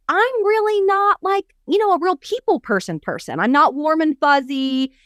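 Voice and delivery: lightly voiced Doctor Phil. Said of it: "And he says".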